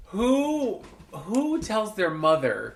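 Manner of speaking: high, drawn-out disbelief; incredulous. Retold or imitated. Mother retelling reaction to son's joke, incredulous. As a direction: stretch out "who" high and slow.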